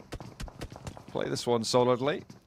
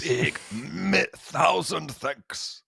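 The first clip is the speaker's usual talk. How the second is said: slow mock thanks; 4 semitones higher, much slower than usual. Mock Italian thank-yous.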